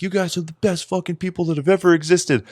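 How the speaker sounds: mock a singer gushing at the crowd; imitating a band frontman. Podcaster mocks a frontman praising the crowd, hammed-up high voice.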